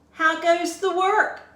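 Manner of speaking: loud, high call; lazy farmer shouting. A narrator's reading. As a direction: call lazily from bed. Teacher voices farmer.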